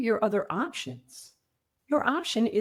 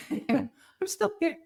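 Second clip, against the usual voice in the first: high, slow, drawn-out disbelief; a touch of laughing wonder; amazed relief; 11 semitones higher, much slower than usual. Retold or imitated. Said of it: "and you're like".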